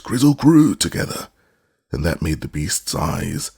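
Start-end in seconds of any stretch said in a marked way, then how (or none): 0.0-0.7 high, loud shout of the words; called out. A narrator's reading. Scraps calling out to the woozy, shouting loudly. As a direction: yell it out to anger him. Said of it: "they all cried".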